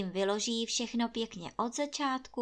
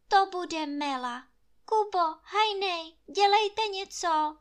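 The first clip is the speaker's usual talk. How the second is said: alarmed urging; 9 semitones higher, 6 dB louder than usual. A narrator's reading. Anče alarmed calling out.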